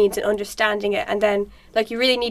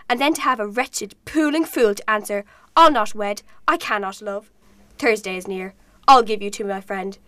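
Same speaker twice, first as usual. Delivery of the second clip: angry father. Acted. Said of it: "Capulet finding out that his daughter is refusing to marry".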